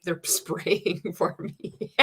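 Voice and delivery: slow, laugh-choked words; laughing while talking. Real, not acted. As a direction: crack up halfway through the words. Cracks up at own slip.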